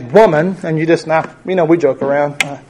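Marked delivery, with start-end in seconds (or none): 0.0-0.6 curt address. Shown as a demonstration. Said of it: "if we were to address a woman this way".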